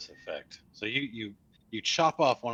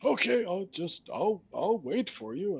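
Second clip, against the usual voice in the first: skeleton voice; 9 semitones higher than usual. Acted. Skeleton waits, confused.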